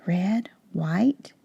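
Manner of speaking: soft whispered count of the stripes. Shown as a demonstration. Teacher whispering the pattern to the class. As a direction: whisper the colours like a secret. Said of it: "counting stripe pattern with class".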